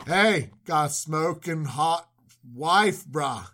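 a hint of a dudebro, voice sinking on the last word; casual bro admirer, lightly put on; lightly voiced bro. Abimelech's men greet the newcomer, lightly voiced bro. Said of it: "Abimelech's men show up and go".

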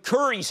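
"Curry" as the speaker's way of saying Kerry; local accent pronunciation. Shown as a demonstration. Host showing his hometown accent, Kerry said as "Curry". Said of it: "the way I pronounce curry".

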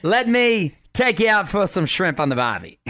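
playful put-on Australian accent. Host plays along with the accent list, mock Australian accent. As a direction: try a jokey Australian accent.

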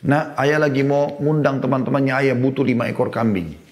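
lightly voiced father, pitch lifted; spontaneous father's request. Father phones his son for goats, lightly acted spontaneous request. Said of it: "ayahnya dengan spontan sebagai seorang ayah".

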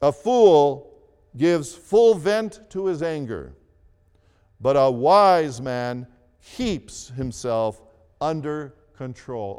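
weighty reading, slowing on the wise man; second scripture reading. Real, not acted. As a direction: lean into each word. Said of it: "the Living Bible puts it this way".

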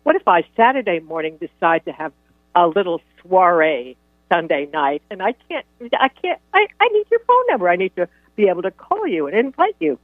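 teasing. Retold or imitated. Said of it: "I would tease him".

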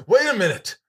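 put-on voice. Host jokes in put-on voice.

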